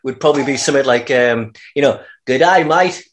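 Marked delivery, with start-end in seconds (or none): 2.2-3.0 Cockney soap. Acted. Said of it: "quick condensed version of EastEnders".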